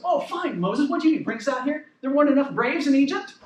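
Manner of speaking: sarcastic, frustrated questioning, rising at the end. Retold or imitated. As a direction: imitate panicked people sniping at their leader. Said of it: "by the sharpness of their sarcasm".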